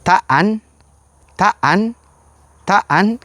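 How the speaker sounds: «Taan» with a long, drawn-out a; «taan» with the vowel stretched and rising. Shown as a demonstration. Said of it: "la diferencia se encuentra entre las vocales". («taan» con vocal larga)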